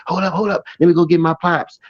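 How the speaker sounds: a hint of a white guy, quick and casual; white guy impression. Jet ski rescuer telling flood victims he'll fetch his pops, light mock white-guy voice. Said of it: "you know how the white people talk".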